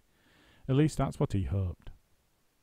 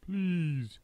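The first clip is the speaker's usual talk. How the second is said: hurt bird; 7 semitones higher than usual. A narrator's reading. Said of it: "said the roly-poly bird".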